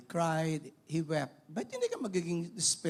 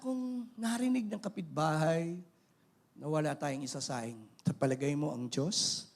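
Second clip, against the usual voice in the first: gently reassuring, settling lower; consoling mother; 3 semitones lower than usual. Acted. Mother consoling her crying child about God hearing, gentle reassurance. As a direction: soothe the child, letting the pitch sink. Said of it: "Para i-console po ni nanay yung anak".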